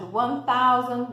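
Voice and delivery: "One thousand" said slowly and clearly; slow model number. Shown as a demonstration. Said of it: "teacher modelling numbers".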